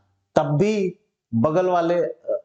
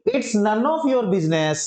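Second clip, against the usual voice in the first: slow model phrase; 4 semitones higher, much slower than usual. Shown as a demonstration. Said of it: "teacher announces next phrase".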